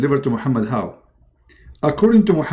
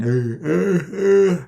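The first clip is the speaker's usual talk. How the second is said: mock yawn; 4 semitones higher, slower than usual. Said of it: "Well, he's yawning".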